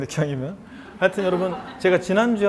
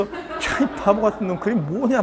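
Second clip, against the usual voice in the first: higher-pitched mock scolding, half laughing; 자신을 욕하기; 4 semitones higher than usual. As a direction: playfully curse yourself out through a laugh. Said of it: "내 스스로를 욕하고". (웃음 섞어 자기를 야단치는 말투)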